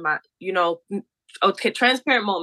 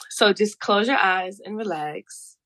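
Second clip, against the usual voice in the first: soft spa whisper; slower than usual. Pretend. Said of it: "I'm quite theatrical".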